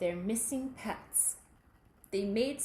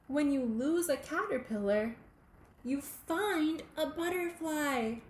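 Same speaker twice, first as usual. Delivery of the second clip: gentle wise Mister Rossetti; 4 semitones higher than usual. Acted. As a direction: share it like a gentle lesson.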